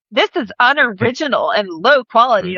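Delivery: lightly acted official rejection; moderator's verdict. TikTok moderation rejecting a creator's post, mildly mocking. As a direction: hand down a mock verdict. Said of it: "They're like".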